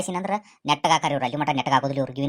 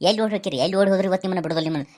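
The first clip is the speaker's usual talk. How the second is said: high, raised calls after them; mock angry yell; 5 semitones higher, faster than usual. Husband shouts after wife and grandma fleeing, high mock yell. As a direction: yell after the ones running away.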